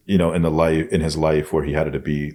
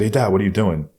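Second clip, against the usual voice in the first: calling across yard; 4 semitones higher, faster than usual. Retold or imitated. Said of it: "yelled across the yard".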